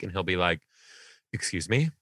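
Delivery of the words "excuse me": lightly voiced, composed little tattletale; measured, matter-of-fact mini professional; calm, businesslike boy. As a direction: imitate a kid reporting calmly, slowing at the end. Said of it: "calm and collected. And he'll be so businesslike".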